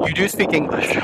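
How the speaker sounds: "do" leaned on hard; "You do speak English" with "do" stressed. Shown as a demonstration. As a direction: hit "do" to make it a statement. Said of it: "it's completely different from".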